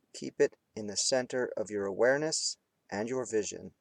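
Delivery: unhurried meditation guide with long pauses; guided meditation. Real, not acted. Teacher guiding students between hard focus and relaxing, guided meditation. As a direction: lead them through it phrase by phrase, leaving space. Leads candle flame meditation.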